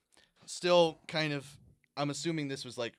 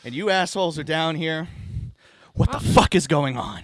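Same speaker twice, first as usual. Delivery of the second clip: laughing; 5 semitones higher, 7 dB louder than usual. Acted. Cop arrives, laughing.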